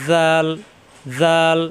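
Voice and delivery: জাল with a soft buzzing z, tongue at tooth tips; soft zal. Shown as a demonstration. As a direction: say the z of জাল softly off the teeth. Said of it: "জাল নরম করে". (জাল, নরম করে দাঁতের আগায় জিহ্বা লাগিয়ে)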